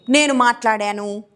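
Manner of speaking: ordinary talk, nothing marked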